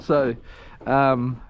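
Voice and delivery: usual speaking voice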